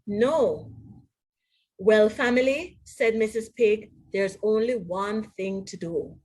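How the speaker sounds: lively storybook read-aloud with voiced characters; animated picture-book narration; reading to children. A narrator's reading. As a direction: read it like bedtime story time for kids. Reads storybook to students.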